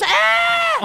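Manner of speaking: very high, loud panicked shriek; lady's shriek. Retold or imitated. Preacher voicing the lady in the corner, loud high shriek. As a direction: shriek like a scared church lady. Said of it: "the lady over in the corner says".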